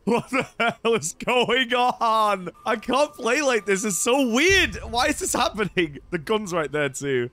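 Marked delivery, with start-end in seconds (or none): 0.0-6.0 baffled outcry. Real, not acted. Gamer who can't play like this, baffled outcry. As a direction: blurt it out in disbelief. Baffled by strange game events.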